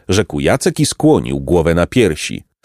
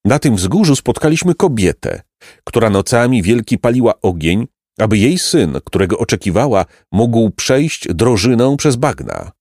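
clear and solemn. A narrator's reading. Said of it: "głosem wyraźnym i jakoby uroczystym".

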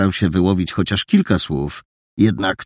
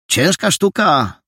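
put-on boy remarking; 10 semitones higher than usual.

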